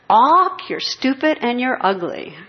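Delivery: high, loud squawk of a rude parrot. Retold or imitated. Parrot squawks insults at a passing woman, shrill and loud. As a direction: screech it like a mocking parrot. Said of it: "the parrot goes".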